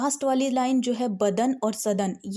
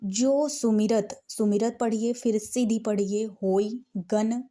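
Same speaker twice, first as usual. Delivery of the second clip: word by word. Shown as a demonstration. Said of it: "तो आप ऐसे पढ़ेंगे".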